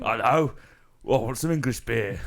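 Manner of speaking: put-on a jokey Nigerian accent character asking for beer; Nigel Nigeria accent. Comedian doing a silly Nigerian accent. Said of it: "But I will do Nigel Nigeria".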